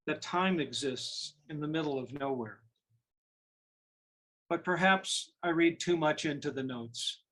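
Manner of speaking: measured poetry recital with pauses between phrases; poem reading. Acted. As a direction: read your poem aloud, letting each line settle. Reads own sestina aloud.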